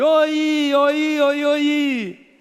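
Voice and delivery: high, loud repeated Oi like an echo; echo effect. Shown as a demonstration. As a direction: bounce Oi back as the echo. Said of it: "O eco responde". (imitando o eco, alto e agudo)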